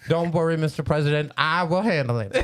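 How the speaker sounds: lightly imitated comedian, reassuring a president; Cat Williams voice. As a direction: lightly put on a comic's voice to take charge. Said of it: "good cat impression".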